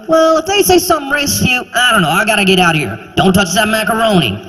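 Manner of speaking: high, hurried dodge of the question; flustered parent. Pretend. Parent dodging a child's question, fast flustered exit. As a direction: rush off to avoid answering.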